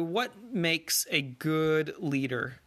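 slow, drawn-out quiz question. Shown as a demonstration. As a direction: pose it slowly like a teacher quizzing. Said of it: "Here's a pop quiz for you".

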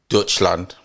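"Dutchland" said the German way, as DOYCH-land; German name pronunciation. Shown as a demonstration. Player offering German name for Germany, German pronunciation. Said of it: "That's how they say it".

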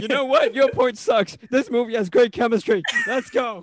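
mock angry rant. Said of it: "Angrily say".

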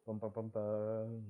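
low sung-out drum-roll of bums; suspense sting. Pretend. Teasing what happens next, low mock suspense sting. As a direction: sound out a dramatic sting. Imitates suspense music before reveal.

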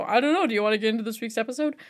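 fast, unsure lead-in; rushed hesitant intro. Retold or imitated. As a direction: rush the intro with a shrug. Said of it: "because I always go".

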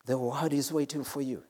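hushed repeat. Real, not acted. Preacher tells the congregation the world awaits them, hushed. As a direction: let it drop softly for emphasis. Same line repeated much softer.

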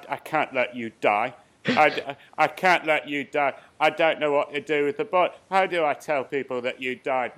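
lightly voiced worried butler; a hint of the worried butler to Master Bruce; Alfred voice. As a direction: plead as the fretting butler. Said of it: "you've got".

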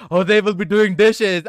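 loud, drawn-out retold complaint; exasperated, emphatic self-quote; exasperated retort. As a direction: retell your objection loudly, stretching it out. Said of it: "And I'm like".

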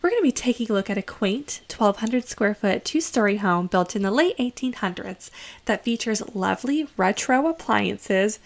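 gushing real estate agent pitch; realtor voice. Acted. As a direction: sell the house like a cheerful realtor. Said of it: "back to my realtor voice".

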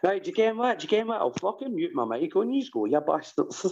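high-pitched huffy outburst; squeaky indignant strop; tantrum. Real, not acted. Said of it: "Is he actually taking a tantrum?".

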